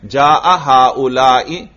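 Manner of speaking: slow جاء ہاؤلائی ending in short "i"; unchanged kasra ending. Shown as a demonstration. Teacher showing the fixed ending, kasra in nominative. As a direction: keep final "i" of ہاؤلائی after جاء. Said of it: "ہر حال میں یہ زیر برقرار".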